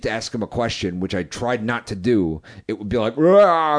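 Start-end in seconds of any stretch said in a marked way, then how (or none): 3.2-3.8 robotic glitch noise. Retold or imitated. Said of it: "like a robot".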